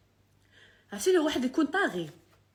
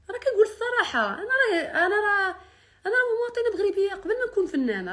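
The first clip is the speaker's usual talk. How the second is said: tearful pleading; 9 semitones higher, 3 dB louder than usual. Real, not acted. Emotional plea, voice breaking.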